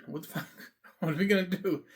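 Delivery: laughing through the words; laughing disbelief. Real, not acted. Mocking the request, laughing in disbelief. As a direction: chuckle it out in disbelief.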